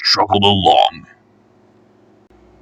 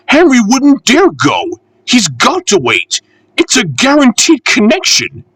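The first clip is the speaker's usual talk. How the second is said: much higher lady's voice, teasing; a higher refreshment lady laughing at the engine; amused refreshment lady; 13 semitones higher than usual. Acted. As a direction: tease the engine fondly.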